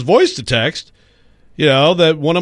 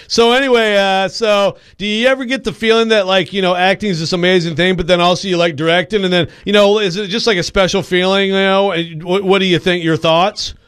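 light, slightly higher Jason Bateman send-up rambling on; mocking Jason Bateman; 5 semitones higher than usual. Host mocking Jason Bateman's long podcast questions, lightly imitated. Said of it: "his questions are like".

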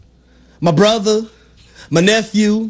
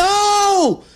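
surprised yelp; 10 semitones higher than usual. Retold or imitated. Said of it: "I said".

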